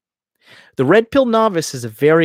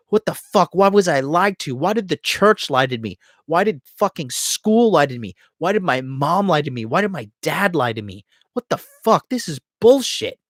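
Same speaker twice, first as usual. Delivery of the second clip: building outrage; 3 semitones higher than usual. Retold or imitated. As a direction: pitch climbs with each question until it cracks into outrage. Acted anger stage, voice climbing.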